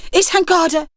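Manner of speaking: weak croaky voice; croaking. A narrator's reading. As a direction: croak it out weakly. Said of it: "she croaked".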